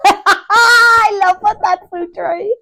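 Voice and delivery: laughing while talking; words through real laughter. Real, not acted. Reacts to the punchline.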